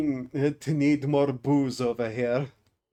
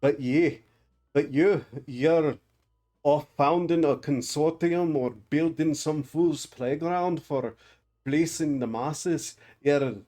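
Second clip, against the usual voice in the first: put-on a rough, lightly done Scottish-ish dwarf accent, a bit louder; hammed-up mock Scottish dwarf accent; stupid put-on accent; 3 dB louder than usual. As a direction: growl it like a grumpy dwarf in a mock Scottish lilt. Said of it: "all these stupid accents".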